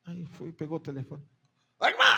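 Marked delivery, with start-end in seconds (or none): 1.8-2.0 lightly voiced booming politician calling out; a hint of Enéas hailing the sister; Enéas imitation. Pastor phoning the doubting sister, lightly mimicking Enéas. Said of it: "Ele parecia o Enéas falando".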